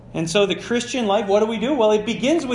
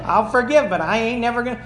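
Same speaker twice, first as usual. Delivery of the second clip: mocking grudge, laughing; 4 semitones higher than usual. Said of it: "That's how my ear hears it".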